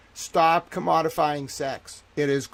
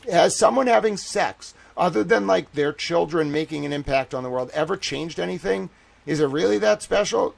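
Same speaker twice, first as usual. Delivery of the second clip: heated rant; 4 semitones higher, 6 dB louder than usual. Real, not acted. Escalating rant about sex.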